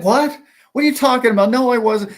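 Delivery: high, loud incredulous protest; retold disbelief. Retold disbelief at friends' claim.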